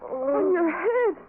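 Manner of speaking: high, sobbing, breaking off; choking in horror; horrified crying. Acted. Florence discovers the wound.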